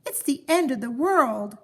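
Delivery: wife panicking in the dark; panicked wail. Acted. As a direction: fear it's all over.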